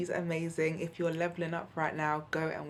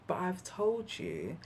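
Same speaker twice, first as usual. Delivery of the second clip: softened; 3 semitones higher, slower than usual. Retold or imitated. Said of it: "I lowered my hands and I said".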